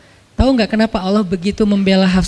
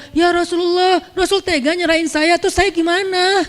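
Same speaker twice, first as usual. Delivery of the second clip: higher, pleading complaint; a hint of a hurt wife's whine; whiny wife's plea; 7 semitones higher than usual. Imagined Hafsah pleading with the Prophet, high and whiny. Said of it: "Dia nggak bilang".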